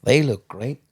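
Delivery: lightly imitated American accent. Singer eyeing his packed lunch, American accent. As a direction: quote her with a touch of American. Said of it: "in the American accent".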